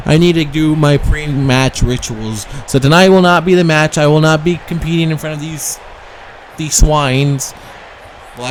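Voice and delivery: lightly voiced bratty heel backing out; a hint of a spoiled diva stalling; Alexa Bliss promo. Heel wrestler dodging the title match, mock haughty.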